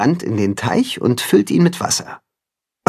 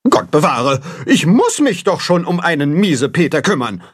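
huffy goose, working herself up; indignant goose; 5 semitones higher than usual. A narrator's reading. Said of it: "ereifert sich Grimm".

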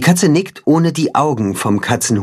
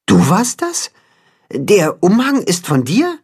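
much higher, delighted surprise; amazed; 7 semitones higher than usual. A narrator's reading. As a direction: it was you all along. Chicken learns cat made cape. (überrascht und erfreut)

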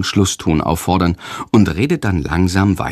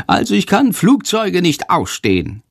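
high bat voice, grumbling; 8 semitones higher than usual. A narrator's reading. Little bat Sándor complaining about airplanes. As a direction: squeak out a grumpy dislike.

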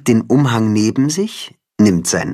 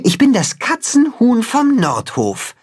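much higher, proud declaration, stress on bin; 13 semitones higher than usual. A narrator's reading. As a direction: announce it with pride, chest out. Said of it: "sagt Timme stolz". (stolz, mit Betonung auf „bin“)

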